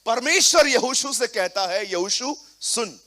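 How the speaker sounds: loud, driving sermon delivery; preaching at full force. Acted. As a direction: fire up the congregation. Preaching to congregation.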